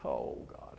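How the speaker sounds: whispered broken Oh God, barely voiced; a hushed imitation of praying through tears; mild breaking whisper to God; retold tearful prayer. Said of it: "start crying and say".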